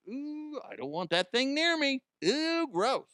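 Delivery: high prissy grossed-out ref; disgusted referee. Retold or imitated. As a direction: recoil in mock disgust. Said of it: "as in, like".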